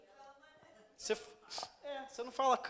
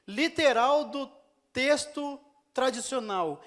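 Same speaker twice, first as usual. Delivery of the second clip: slow, emphatic title; 2 semitones higher, 5 dB louder, slower than usual. Real, not acted. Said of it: "chama-se".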